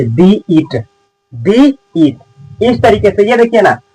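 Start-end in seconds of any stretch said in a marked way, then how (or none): 0.0-2.2 दी with a long ee before eat. Shown as a demonstration. Teacher showing students दी before a vowel sound, long-ee pronunciation. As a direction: say दी eat, drawing out the vowel in दी. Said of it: "यहाँ पे दी पढ़ते".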